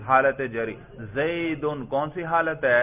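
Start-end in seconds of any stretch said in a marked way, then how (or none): 1.1-1.9 زیدن said slowly as "Zaydun", ending in "-un"; demonstrated case ending. Shown as a demonstration. Teacher quizzing students on case by sound, demonstrated ending. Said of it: "میں صرف تلفظ کر رہا ہوں زبان سے".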